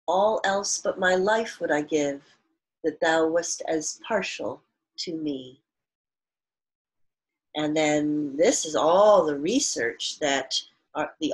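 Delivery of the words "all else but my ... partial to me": put-on reads the old verse aloud to the class; measured poem recital for students; poem reading. Teacher reads poem quotation.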